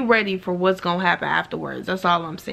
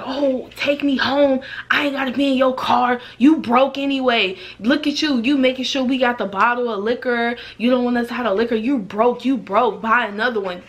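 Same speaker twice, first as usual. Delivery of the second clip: mock taunting girls; 3 semitones higher than usual. Girls insulting the driver.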